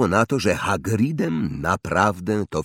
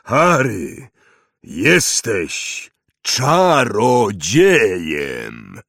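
triumphant reveal; 4 dB louder, much slower than usual. Acted. Big reveal.

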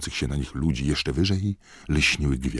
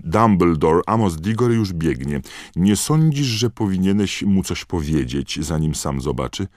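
high, loud, alarmed plea; urgent alarmed shout; 5 semitones higher, 7 dB louder than usual. Acted. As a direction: warn him over the crowd. Fudge urgently warning Dumbledore.

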